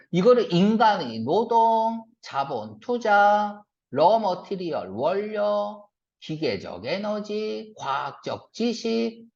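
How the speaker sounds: drawn-out list reading, each item's ending held; wrong list reading. Shown as a demonstration. Teacher shows students how not to read it, plodding list reading. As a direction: read item by item, dragging "노동", "투자" and "원료". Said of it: "이렇게 읽으면 안 돼요".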